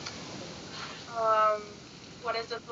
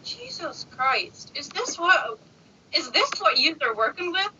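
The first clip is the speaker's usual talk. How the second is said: retold disbelief; 6 semitones higher than usual. Retells disbelief at man's question.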